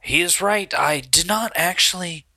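hesitant confession in character; reluctant confessor. Acted. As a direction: own up haltingly, voice partly hushed. Game master voices accused Steve confessing.

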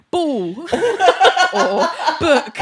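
giggling through the words; laughing. Retold or imitated. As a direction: laugh while saying it. Imitating toddler's answers laughing.

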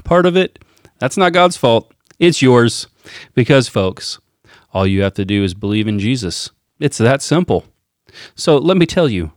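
playful politician impression, emphatic rises then dropping off; mock rally cadence, nearly cracking up at times; Donald Trump. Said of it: "read it with his cadence".

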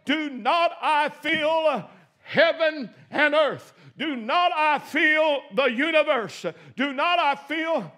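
slow, emphatic not in each line; stress on not. Acted. Preacher reading Jeremiah, stressing not. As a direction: lean hard on not. Scripture read with repeated stress.

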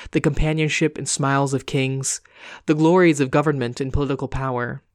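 steady storytelling read; story narration. A narrator's reading. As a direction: read it like a bedtime tale. Reads the story aloud.

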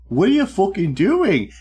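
sharp angry yelling. Retold or imitated. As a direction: yell it out in anger. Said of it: "just straight up".

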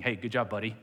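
a dad's easy encouragement; imitating dad's praise. Dad praising son after a game, lightly voiced. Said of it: "my dad's saying".

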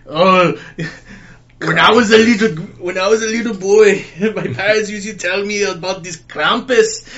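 put-on light Arnold Schwarzenegger Austrian accent; hint of Austrian accent, storytelling. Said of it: "in his Austrian accent".

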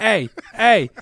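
exaggerated loud Boston accent, finishing the movie impression; Ben Affleck Boston tough guy. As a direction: keep up the hammed-up Boston heavy's warning. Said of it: "it's Ben Affleck just going like".

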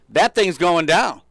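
slow, loud and grave, each word weighed; urgent warning. Retold or imitated. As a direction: warn the crowd the car is sinking, slow and firm. Bystander rescuer sizing up sinking car.

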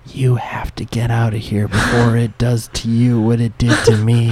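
understated in-character plea, evenly paced; a hint of an ominous warning; lightly voiced warning. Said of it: "She's like".

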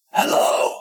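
hushed, voiceless call; whisper. Acted. Player whispers down into the basement through a trapdoor, whispering. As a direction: whisper it tentatively into the dark. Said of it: "just whisper in".

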